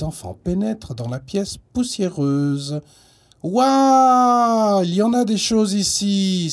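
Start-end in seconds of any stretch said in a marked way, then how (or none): 3.4-4.8 wide-eyed, amazed wow; excited exclaim. Acted. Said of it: "s'écrie Anatole". 4.8-6.5 amazed and eager; excited exclaim. Acted. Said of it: "s'écrie Anatole".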